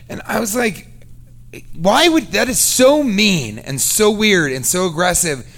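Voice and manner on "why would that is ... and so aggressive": indignant outburst. Retold or imitated. Comedian retelling his offended reply to the woman, indignant. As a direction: sputter like you can't believe her nerve.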